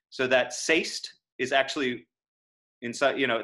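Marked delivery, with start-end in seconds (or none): 0.5-1.1 "say'st" squeezed into a single syllable; one syllable. Shown as a demonstration. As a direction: say "say'st" as one beat, rising. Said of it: "that's actually one syllable".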